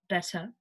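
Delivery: "better" with a true T; sounded T. Shown as a demonstration. Teacher going through the sounds, "better" with a clear T. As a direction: pronounce the T in "better". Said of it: "with the T".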